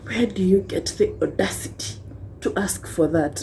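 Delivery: breathy hushed disbelief, voiceless; hushed scandalized whisper. Retold or imitated. Mocking the people who gasp at girls asking for rights, in a whisper. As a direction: whisper it like a shocked gossip.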